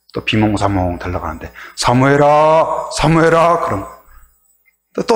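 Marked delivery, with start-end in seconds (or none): 1.8-3.6 slow, drawn-out calling of a name; God calling. Retold or imitated. God calling sleeping Samuel, slow and drawn out. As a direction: call out slowly into the night.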